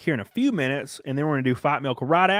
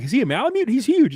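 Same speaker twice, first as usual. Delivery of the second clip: higher, louder gasp of disbelief; imitating a stranger's shocked awe; amazed onlookers; 11 semitones higher, 6 dB louder than usual. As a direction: play the stranger stunned by the dog's size. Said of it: "and people are like".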